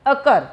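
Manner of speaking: अकर as "uh-KUR", strong कर; stress on second syllable. Shown as a demonstration. Teacher showing where stress comes, अकर stressed on कर. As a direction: lean into कर in अकर. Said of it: "कर पे ज़्यादा".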